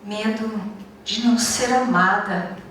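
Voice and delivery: measured monologue, long pauses between phrases; understated, reflective dramatic reading; poetic confession. Acted. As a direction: confide it like a spoken poem, leaving silences. Recites a confession of fears.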